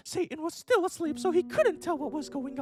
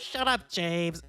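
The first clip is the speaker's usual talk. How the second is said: shouting; 10 semitones lower, much slower than usual. Acted. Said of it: "Draco's dad shouted".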